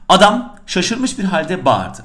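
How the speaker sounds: slow, even dictation of "Adam şaşırmış bir halde bağırdı"; slow dictation reading. Shown as a demonstration. Teacher dictating the exercise sentence to students, slow and even. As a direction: read the sentence slowly, word by word, as the bare exercise text. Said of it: "Ne diyor?".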